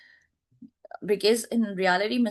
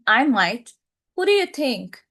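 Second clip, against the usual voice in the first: curt retort; 3 semitones higher, 4 dB louder than usual. Acted.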